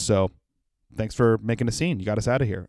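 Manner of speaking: low, soft aside; retold quiet remark. Girlfriend to him after the scene, retold low and soft. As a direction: speak low and subdued, as the girlfriend.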